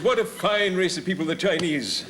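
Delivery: hammy actor buttering up a shopkeeper; old touring actor. Acted. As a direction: project grandly like an old thespian. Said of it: "a story about an old boy who's on tour".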